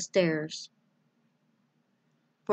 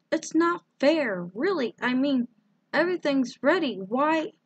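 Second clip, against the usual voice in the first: put-on upset little girl; 7 semitones higher than usual. A narrator's reading. Girl protests to mother.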